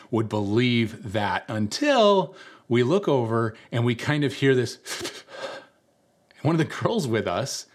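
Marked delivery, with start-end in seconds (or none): 4.8-5.6 soft, unvoiced mock sob; quick breathy fake whimper; imitated crying sniffle. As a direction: imitate someone starting to cry, just breath. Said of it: "is starting to cry".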